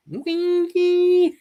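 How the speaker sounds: high squeaky cartoon squeal; high goofy cartoon squeak. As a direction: squeak it out like a tiny alien. Imitating cartoon character line.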